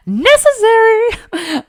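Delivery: high, slow, laughing word; laughing through tears. Real, not acted. Grabbing a tissue mid-story, laughs it out. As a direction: stretch it out laughing at yourself. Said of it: "I did grab a tissue".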